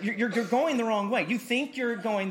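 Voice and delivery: loud, high, insistent repeat; preacher warning the congregation; fervent preaching. Acted. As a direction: hammer the warning home. Preacher climax.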